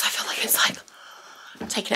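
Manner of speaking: breathless and fading to air; words running out of breath. Real, not acted. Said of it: "even though I'm out of breath".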